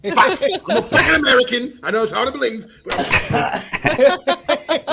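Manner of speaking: laughing mock American. An American arriving in Australia, laughing. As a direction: squeal it through laughter.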